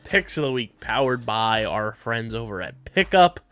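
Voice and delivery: punchy announcer-style ad read; sponsor read. Real, not acted. Host plugging the segment sponsor, punchy ad read. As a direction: sell it like a show sponsor plug.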